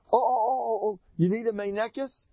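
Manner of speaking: high, gushing oh-oh-oh; a touch of a fussing sister; eager Miriam. Retold or imitated. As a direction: sing out the offer eagerly. Miriam offers a wet nurse.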